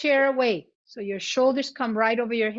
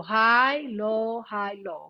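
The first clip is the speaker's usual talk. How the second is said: pitch change demo; 2 semitones lower, slower than usual. Shown as a demonstration. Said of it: "change the pitch".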